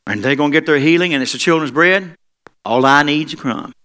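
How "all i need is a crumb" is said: eager plea. Acted. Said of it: "She said".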